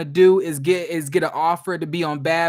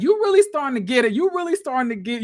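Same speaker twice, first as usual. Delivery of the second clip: higher, louder gleeful imitation; cheering the fight on, mock excited; 5 semitones higher, 3 dB louder than usual. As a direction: egg her on, delighted. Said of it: "I was like".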